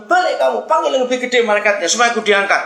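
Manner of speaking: loud, high, insistent order; stubborn demand. Acted. Hanging man sends angel back for a bigger one, pushy demand. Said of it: "Wah, ngotot lagi".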